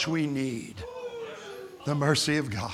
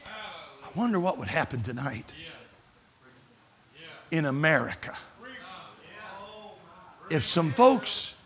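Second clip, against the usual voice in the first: hushed appeal; 8 dB quieter than usual. Acted. Preacher quietly appealing to the congregation. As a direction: pull them in close and quiet.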